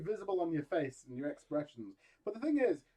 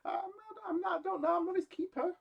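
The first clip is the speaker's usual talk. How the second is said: shifty Cain; 13 semitones higher than usual. Retold or imitated. Cain answers God.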